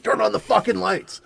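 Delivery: mock a startled scream without full volume; half-held-back panicked shout; retold waking scream. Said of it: "I just wake up fucking screaming".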